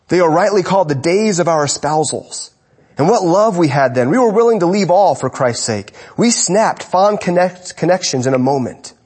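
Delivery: reading aloud. Acted. Preacher reads Spurgeon to his church, fervently. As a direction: read it with rising fervour.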